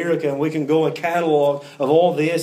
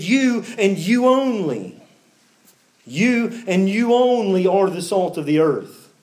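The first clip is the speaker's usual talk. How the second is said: slow, raised "You and you only", stressing both yous; emphatic; 2 semitones higher than usual. Shown as a demonstration. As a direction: lean hard on "only" after a drawn-out "You and you". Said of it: "you see a similar word".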